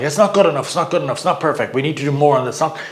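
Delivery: light mock nagging, a bit quick; lightly voiced fault-finding parent; critical inner voice. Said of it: "it's all this critical".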